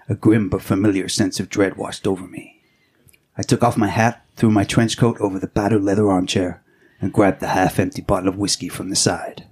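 hard-boiled detective narration; brooding noir voiceover; film noir narration. Acted. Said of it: "that little film noir inspired intro".

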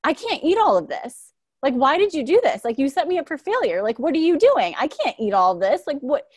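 high, loud upset cry of frustration; imitating a breakfast meltdown; retold tearful outburst. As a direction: blurt it out near tears, overwhelmed. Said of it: "I just started crying and I was just like".

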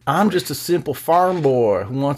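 put-on folksy farm boy voice; slow aw-shucks country drawl; aw shucks act. Mocking singer as farm boy.

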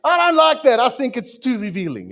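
high, loud mock objection; mock outrage. Preacher playing a scandalised listener, high and loud. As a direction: squeal it out, offended.

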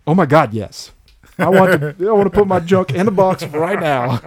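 hammed-up thrill of Justin keen to do the sketch; excited Justin. Producers pitch to Justin, he answers with hammed-up eager yell. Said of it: "he was like".

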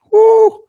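a sudden high, loud whoop; excited whoop. Real, not acted. Preacher whoops at his congregation, high and loud. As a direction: let out a joyful preacher's whoop.

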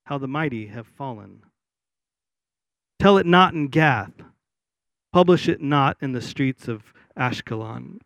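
solemn, measured lament with long pauses; scripture reading. Acted. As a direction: read it as a formal lament, phrase by phrase. Reads the lament aloud.

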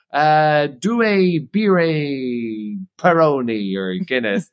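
hesitant tourist fumbling an order, starting high; mock panic. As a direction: imitate a flustered customer groping for Italian words. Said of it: "And then they panic".

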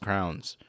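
"crowns" for crayons, as one syllable; teasing mispronunciation. Retold or imitated. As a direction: slip in a mocking "crowns" for crayons. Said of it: "I'm making fun of her".

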